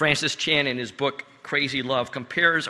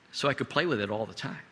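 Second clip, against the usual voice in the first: laughing while quoting; 3 semitones lower, 6 dB quieter, faster than usual. Retold or imitated. Laughing at child's odd answer.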